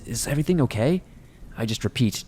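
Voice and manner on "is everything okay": higher, puzzled rising question; disbelieving question. Retold or imitated. Mom to her frightened child in the car, disbelieving question. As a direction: imitate a mom baffled by her panicked child. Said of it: "looks at me in disbelief and goes".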